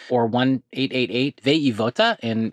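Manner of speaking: put-on numbers and Spanish slipping into a light French accent; a touch of French accent on the hotline number; accidental French accent. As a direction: let a hint of French accent creep into the Spanish. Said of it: "with a French accent, possibly".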